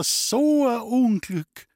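high, slow, loud lament; pitying old woman. Acted. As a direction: wail it like a grieving neighbour. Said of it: "zeigte tiefes Mitgefühl".

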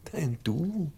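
breathy whisper, almost no voice; tender whisper. Acted. The teacher whispers to dying Kaspar: tender whisper.

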